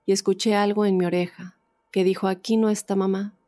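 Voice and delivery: measured read-aloud testimony, pauses between phrases; story narration. A narrator's reading. Host reads a listener's ghost story to the audience, story narration. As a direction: read it out as a first-person true tale.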